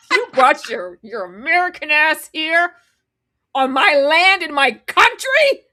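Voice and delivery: hammed-up affront, stretching the last words; mock outrage. Imitating him confronting the traitor, mock outraged. Acting out his anger at traitor.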